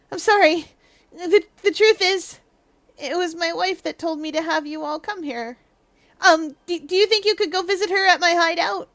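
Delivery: timid apologetic suspect. Acted. Suspect asks visitors a favor, timid and apologetic. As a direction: stammer it out apologetically, a touch high. Voices game dialogue.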